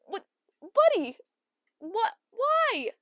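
high, squeaky mock dismay; bewildered pleading. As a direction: beg the pet for an explanation. Pleads with the spider.

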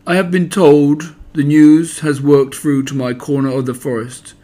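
lightly voiced gloomy donkey, solemn and important; understated mournful Eeyore making an announcement.

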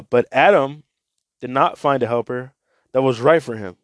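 scripture reading to listeners; Bible reading. Acted. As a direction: read the scripture out to the group. Reads Bible passage aloud.

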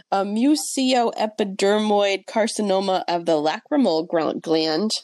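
slowly sounding out "mucoepidermoid carcinoma of the lacrimal gland"; careful try at a hard term. Shown as a demonstration. Reviewer slowly attempting a medical term she expects to botch. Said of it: "I'm gonna try and pronounce this".

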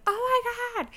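high, strained mock wail; replayed labor groaning words; retold pain cry. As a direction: act out a contraction.

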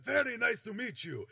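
loud, high hearty greeting; Minsk greeting. Acted. GM as Minsk shaking hands, loud and hearty. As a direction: greet like a friendly giant.

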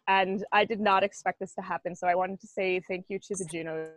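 formal award speech, a little choked up; mock acceptance speech. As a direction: deliver it like you're at the podium. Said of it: "do you wanna give us your Juno acceptance speech".

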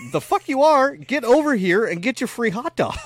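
loud, high retold scolding of the kids; mock angry dad. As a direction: bark it at the kids half-joking.

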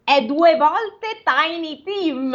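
Scrooge chuckling. Acted. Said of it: "scoppiando dal ridere".

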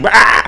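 short mock roar; imitated crazy scream. Showing mom her screaming fit, brief mock scream. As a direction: give a brief, contained growly "rah". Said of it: "screaming crazy".

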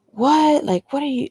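high, incredulous outburst quoting him; loud high "what?", then trailing disbelief; imitated shock. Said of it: "he was so shocked".

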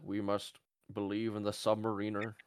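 put-on lightly done British Churchill accent; a barely British wartime speech, understated; Winston Churchill. Joking Churchill speech for the Submariner, faint British accent. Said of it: "That's my Winston Churchill".

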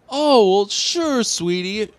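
high, sing-song mock sweetness; sugary mom. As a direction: placate him with fake sweetness. Mom humoring upset son.

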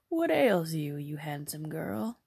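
put-on mysterious old fairy woman; kindly old woman.

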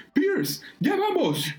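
very high, drawn-out call; acted rescuer's cry. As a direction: holler to someone far off in the water. Calling to drowning man.

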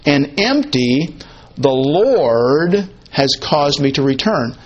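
EMPTY slowed and set apart by a pause, LORD drawn out after it; slowly weight "empty", then stretch "Lord"; emphasis on empty. Acted. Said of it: "she's emphasizing the word empty".

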